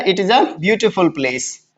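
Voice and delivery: slow, word by word, "it is a beautiful place"; slow dictation. Shown as a demonstration. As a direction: spell out every word slowly like dictation. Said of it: "बोलो क्या बनाया". ("it is a beautiful place" धीरे-धीरे, हर शब्द अलग बोलते हुए)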